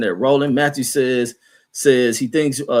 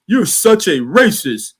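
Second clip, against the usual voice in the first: slow, higher mocking whine; mock white commenter; 6 semitones higher, 4 dB louder, slower than usual. Streamer mocking a white chat troll, slow high mock whine. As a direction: drag it out like a whiny troll being offended. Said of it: "what your little funky white ass gonna probably say".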